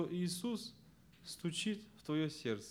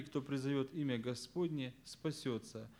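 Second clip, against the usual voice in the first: unstressed tail after ВСЯКИЙ, softer; stress on preceding word; 3 semitones lower, 5 dB quieter than usual. Shown as a demonstration. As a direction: let «кто призовёт имя Господне, спасётся» fall away quietly. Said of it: "первое ударение я поставил на слово".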